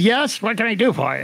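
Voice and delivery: lightly mimicked tipsy gatekeeper; a hint of a toasted man's odd manner of talking; Jerry Pournelle. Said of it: "he talks like this kind of".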